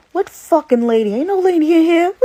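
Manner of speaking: loud, high, furious shout; tough angry yell. Pretend. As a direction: yell it like a fed-up hothead. Joking tough-girl version of Maya.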